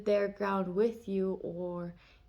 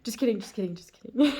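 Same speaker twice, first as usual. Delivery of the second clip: quick take-back; 3 semitones higher, 7 dB louder, faster than usual. Retold or imitated. To a friend she just told to shut up, a sheepish, rising just kidding. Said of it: "now I'm like".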